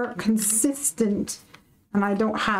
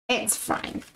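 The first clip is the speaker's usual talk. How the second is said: 1 whispered it's fine; 5 dB quieter than usual. Real, not acted. Reassures viewers after drama.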